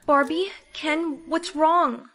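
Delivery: slow loud alarmed call. Acted. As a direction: cry it out in alarm. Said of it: "second take loud".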